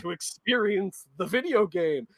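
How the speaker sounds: mock the player like a smug hag; scoffing witch voice. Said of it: "they laugh and they scoff and they say".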